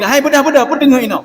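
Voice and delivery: high startled call with a laugh. Acted. Sleeper startled by a passerby, high laughing call. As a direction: woken up and laughing in shock.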